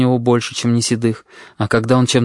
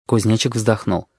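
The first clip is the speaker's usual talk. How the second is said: usual speaking voice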